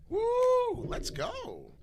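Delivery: high, loud whoop of joy; excited whoop. Real, not acted. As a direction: cheer the price jump. Bitcoin price jumps live.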